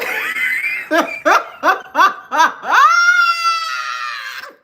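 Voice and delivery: high, howling belly laugh; loud laughter at the ex; loud shrieking laugh. Real, not acted. Cracking up at the ex.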